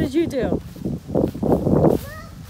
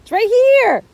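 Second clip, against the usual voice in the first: raised voice so she hears; louder repeat; 5 semitones higher, 3 dB louder than usual. Real, not acted. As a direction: say it again, louder and higher. Repeating after not being heard.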